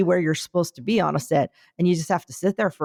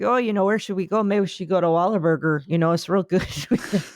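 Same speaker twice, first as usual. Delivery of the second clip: light mock Canadian accent; breezy Canadian suggestion, lightly voiced. A couple in Boston picking Wahlburgers, in a light Canadian accent. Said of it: "I appreciate that accent".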